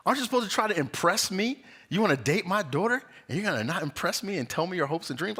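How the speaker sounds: high-pitched mock affront; indignant mother. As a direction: imitate a mother challenging her daughter's suitor. Acted indignant mother questioning daughter's suitor.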